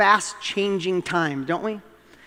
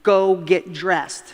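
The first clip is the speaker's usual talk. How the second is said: slow, measured command at usual pitch; a dad's first, controlled instruction, spaced out; retold parental order; much slower than usual. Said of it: "my gut instinct was".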